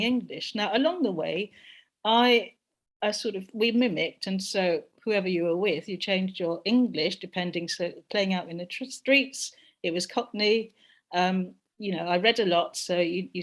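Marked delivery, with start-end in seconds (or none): none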